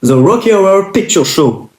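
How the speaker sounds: English title in a heavy French accent; bad French-accented English. Real, not acted. Vlogger announcing an English film title to viewers, bad French accent. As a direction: read it slowly with a French accent. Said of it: "j'ai un accent de merde".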